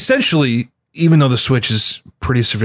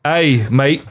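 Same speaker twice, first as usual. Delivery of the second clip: quick Aussie greeting; mock Australian "Hey, mate"; a brief Aussie accent. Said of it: "That's my Australian accent for you guys".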